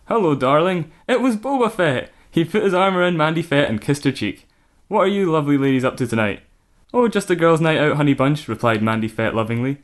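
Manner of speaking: lightly voiced jovial husband; a hint of a cheery bounty hunter; Boba Fett. Boba Fett greeting the ladies, lightly voiced. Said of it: "Where's his Maori accent?".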